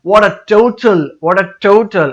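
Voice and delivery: first syllable of total hit hard; strong stress on TO-. Shown as a demonstration. Teacher showing learners where to emphasise, strong stress on TO in total. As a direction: punch the TO in total, drawn out. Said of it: "आपने इसको strongly stress करना है".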